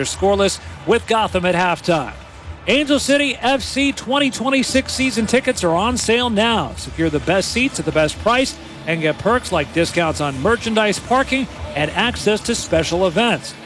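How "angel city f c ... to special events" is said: upbeat sponsor read, clear and brisk; polished broadcast ad voice. Acted. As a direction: sell the season tickets like a radio spot. Season ticket ad read.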